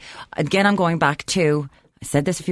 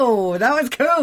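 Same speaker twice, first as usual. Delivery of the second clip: mock awe; 8 semitones higher, slower than usual. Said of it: "I was like".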